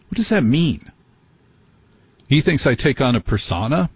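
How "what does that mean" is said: baffled. Real, not acted. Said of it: "baffled by word".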